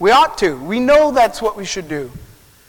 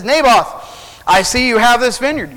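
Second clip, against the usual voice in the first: lightly acted king, pitch raised; king addressing a subject; 4 semitones higher than usual. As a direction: hail him like a king, a little hammed-up.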